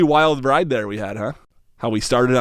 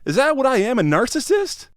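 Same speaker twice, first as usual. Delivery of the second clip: surprised; 10 semitones higher than usual. Acted. Shocked at being called narcissist.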